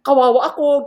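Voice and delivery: loud, hammed-up pity-me wail; mock pitiful plea. Teacher guilt-tripping her cheating students, mock pitiful plea. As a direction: lay the guilt on thick, half-joking.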